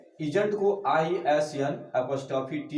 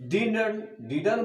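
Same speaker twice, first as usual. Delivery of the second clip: British didn't; 5 semitones higher than usual. Shown as a demonstration. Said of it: "British में shortcut में बोलते हैं".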